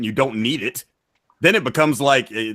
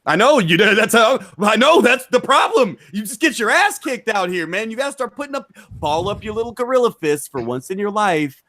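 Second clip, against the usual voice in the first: mock promo rant; 5 semitones higher than usual. Heated wrestling promo at opponent.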